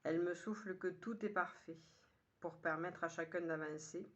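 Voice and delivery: measured poem reading in short, paused phrases; poem recitation. Acted. Poet sharing today's poem with listeners, measured recitation. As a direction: recite it line by line, lifting the opening. Reads poem a third time.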